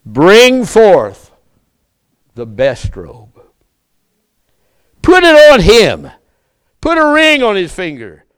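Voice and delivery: the father calling out high and loud to his servants; joyful father. Acted. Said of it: "Notice what his father says".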